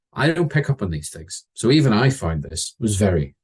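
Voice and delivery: usual speaking voice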